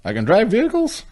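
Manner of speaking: high, excited put-on hybrid Scottish accent, rising to a squeal; mock hybrid accent. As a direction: play the amazed newcomer in a made-up Scottish-Mexican accent. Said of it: "What accent would you say that was".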